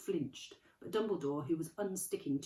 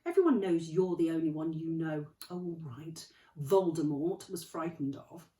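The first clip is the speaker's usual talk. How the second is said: McGonagall; 6 dB louder than usual. Acted. McGonagall voiced.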